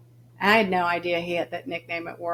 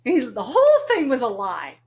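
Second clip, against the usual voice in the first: laughing; 4 semitones higher, 7 dB louder than usual. Real, not acted. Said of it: "laughing retelling".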